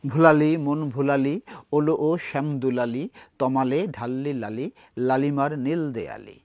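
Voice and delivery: slow Bengali poetry recitation; poem recitation. Acted. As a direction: lay out each rhyming line slowly for the class.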